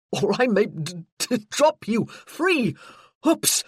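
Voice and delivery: high, loud laughing teasing; rising playful mock panic; playful alarm. A narrator's reading. Hero pretends dropping her, laughing.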